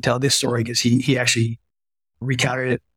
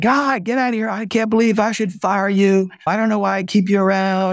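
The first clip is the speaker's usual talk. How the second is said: mock exasperation; 8 semitones higher than usual. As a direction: play the boss's affectionate exasperation. VP exasperated with his doctor.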